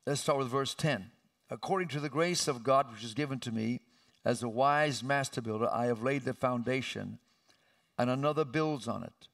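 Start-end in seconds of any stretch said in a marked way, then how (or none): 1.5-9.3 measured scripture reading with emphasis; slow emphatic reading. Real, not acted. Preacher reading scripture to congregation, slowly with emphasis. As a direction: read out the verse deliberately, weighting key words. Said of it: "read this slowly with emphasis".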